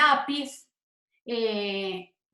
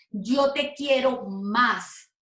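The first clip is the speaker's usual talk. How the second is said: slow teaching example; much slower than usual. Shown as a demonstration. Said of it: "Fíjense que estoy indicando".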